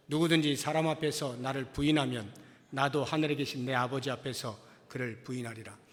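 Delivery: measured, even reading for a congregation; scripture reading. Real, not acted. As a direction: read the verse out steadily, firm on each opening. Reads scripture aloud with congregation.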